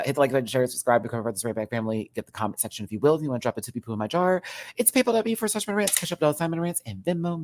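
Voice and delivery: fast, rattled-off sponsor read; quick channel outro plug; rushed plug read. Acted. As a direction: race through the plugs like an ad.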